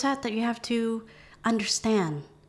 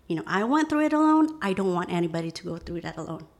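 steadying shaky voice; faster than usual. Real, not acted. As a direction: voice rising then hurrying on emotion. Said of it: "I'm a bit emotional about it".

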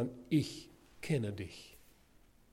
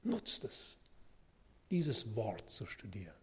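lower, hushed whisper; 4 semitones lower, 9 dB quieter than usual. Real, not acted. Preacher whispering urging students to study. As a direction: breathe it as an urgent secret.

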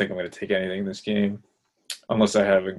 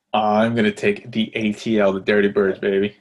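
pumped, louder confident call; hyped up; 5 dB louder than usual. Real, not acted. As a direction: sell the pick with swagger. Hyped about his upset pick.

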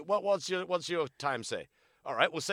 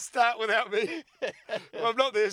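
slow, loud, high mocking echo; slow, loud scoff, high in the voice; mocking repeat; 11 semitones higher, 8 dB louder, slower than usual. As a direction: drag out the line and ham it up.

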